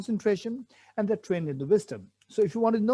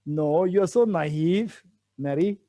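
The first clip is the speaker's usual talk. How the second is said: slow, louder teasing put-down; the friend teasingly scolds, in a slow, loud put-down; mock scolding; 4 dB louder, slower than usual. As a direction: drag it out like chiding a naive friend. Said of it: "Mary will tell me that you're so naive".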